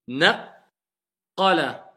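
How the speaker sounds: Naqala drawn out very slowly, held q; slow Arabic recitation. Shown as a demonstration. Teacher modelling the shidda for the student, very slow. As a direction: lengthen Naqala, syllable by syllable. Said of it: "il y a le qa et en plus il y a la shidda".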